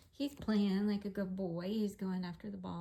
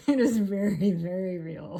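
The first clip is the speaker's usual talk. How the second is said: emphatic; 12 dB louder than usual. Real, not acted. Emphatic after laughing.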